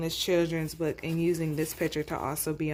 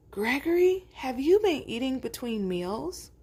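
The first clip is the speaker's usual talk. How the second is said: high, questioning father goat; suspicious father; 5 semitones higher than usual. Acted. Father goat quizzing his son, higher and probing. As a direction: press Gregory gently about snacking.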